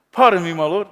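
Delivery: a hint of an overly polite servant; lightly voiced courteous plea to his lord; polite Gideon. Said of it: "so polite".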